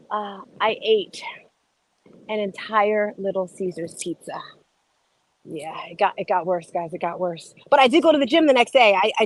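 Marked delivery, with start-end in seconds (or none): 0.1-7.5 much softer, sheepish admission; embarrassed quiet confession. Real, not acted. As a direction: confess it under your breath.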